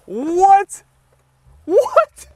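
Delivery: high, loud excited disbelief; amazed shouts. Real, not acted. Roof working, repeated amazed shouts.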